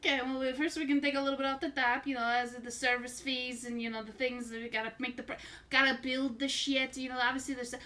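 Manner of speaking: carnival barker. Acted. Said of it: "Why do you sound like a carnival barker".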